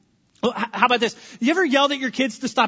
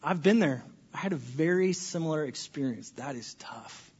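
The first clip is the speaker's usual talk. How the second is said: sympathetic; 4 semitones lower than usual. Shown as a demonstration. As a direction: comfort a friend, gently fading out. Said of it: "good things we can say".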